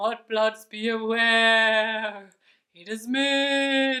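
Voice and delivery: low scary ghost voice. Demonstrating an exercise to lower the larynx, the speaker uses a very low scary ghost voice. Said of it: "speaking in this very low, scary voice".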